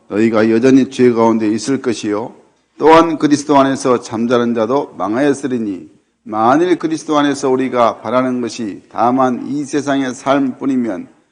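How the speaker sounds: steady, solemn reading aloud in unison; scripture reading. Acted. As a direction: read the verses out with the congregation, measured. Congregation reads scripture together. (회중과 함께 성경을 봉독하는 엄숙한 낭독)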